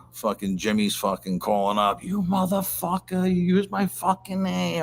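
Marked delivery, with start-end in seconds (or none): 2.0-4.8 high, slow mock tirade; hammed-up furious boss on the phone; imitating a furious boss, pitched high; retold angry boss.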